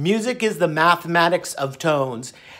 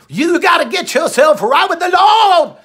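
higher, louder, laughing shout; mock preachy shout; 8 semitones higher, 5 dB louder than usual. Imitating the doctor shouting about the Lord, laughing. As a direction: proclaim it like a preacher. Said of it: "He said".

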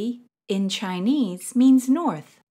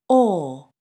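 "or" in a British accent, without the R; 2 semitones lower, 4 dB louder than usual. Shown as a demonstration. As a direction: say "or" as the British do, falling. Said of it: "in a British accent".

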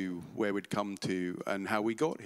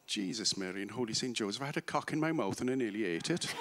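imitated Kerry mother, pitch lifting towards the end; Kerry accent. Refined religious Irish mother at Christmas dinner, in a Kerry accent. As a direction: exclaim in an Irish lilt, Kerry style. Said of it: "in my best Kerry accent".

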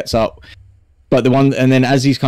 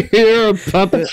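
higher put-on voice, amused and teasing; mocking character voice; 10 semitones higher than usual. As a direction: tease him in the character voice. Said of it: "Thron goes".

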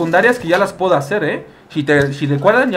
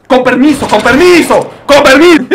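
high, loud, insistent; loud excuse-me; 8 semitones higher, 9 dB louder than usual. Real, not acted. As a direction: shove past, half laughing. Pushing past NPCs.

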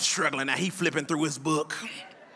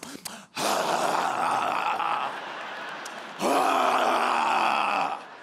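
long exaggerated sigh; 3 semitones lower than usual. Girl acting out in back.

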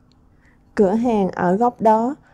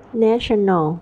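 National with NA stressed; stress on first syllable. Shown as a demonstration. Teacher modelling stress for the class, first syllable stressed. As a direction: hit the first part of National. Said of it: "Ta nhấn phần một".

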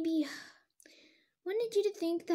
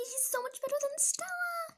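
whispered, higher and softer, gloating; 9 semitones higher, 6 dB quieter than usual. Acted. Olivia whispering to herself about her new horse, gloating. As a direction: breathe it like a smug secret.

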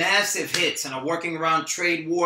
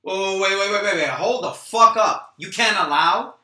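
menacing rage; 3 semitones higher, 5 dB louder than usual. Acted. Rocky threatens Troy over the phone, menacing. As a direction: lean in, every word a threat.

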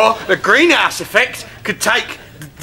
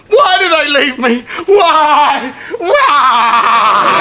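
melodramatic wailing; 4 semitones higher, much slower than usual. Acted. Self-pitying wail in bed.

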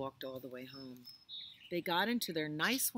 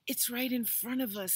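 scared; 8 semitones higher, 7 dB louder than usual. Acted. Wolf right in front of them.

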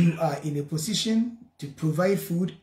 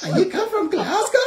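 put-on playful Scottish accent, pitched up; mock Scottish accent; 12 semitones higher than usual. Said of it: "That is the way we speak it".

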